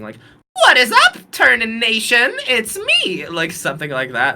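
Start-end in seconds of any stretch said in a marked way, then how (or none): 0.5-3.3 high, loud Monokuma-style hype greeting; hammed-up high mascot voice greeting fans; Turnin. Shown as a demonstration. Podcaster trying out a voice for a character, high mascot hype. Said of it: "for Turnin, I'm kind of imagining".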